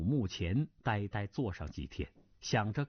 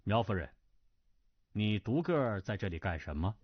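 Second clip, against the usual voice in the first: cold; 3 semitones lower than usual. Acted. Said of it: "冷冷的道".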